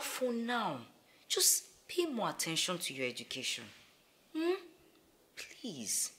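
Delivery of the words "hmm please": breathy pleading please; soft, near-whispered begging. Acted. Mother pleading softly.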